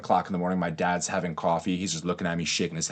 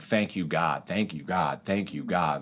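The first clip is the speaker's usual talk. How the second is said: tearful thanks; 4 semitones lower, 5 dB quieter, slower than usual. Retold or imitated. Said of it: "I'm just crying".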